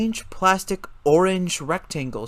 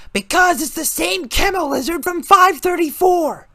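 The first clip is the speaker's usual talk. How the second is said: agitated; 7 dB louder than usual. A narrator's reading. Kevin answering agitated.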